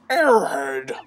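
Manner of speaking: gruff angry yelling; angry Bowser. Acted. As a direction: berate the minions. Bowser yells at minion.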